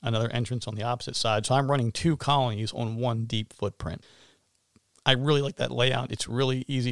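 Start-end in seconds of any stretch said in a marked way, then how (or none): 5.1-6.9 slightly hoarse, allergy-worn voice. Real, not acted. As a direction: speak through a hoarse throat. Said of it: "Excuse my hoarse voice here".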